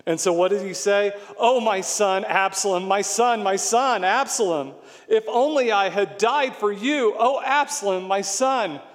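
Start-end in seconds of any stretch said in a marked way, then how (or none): 1.4-8.8 raised, plaintive lament for a son; mildly acted cry of a bereaved father; grieving father's cry. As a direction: call out in mourning, with restraint. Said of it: "the cry of a father".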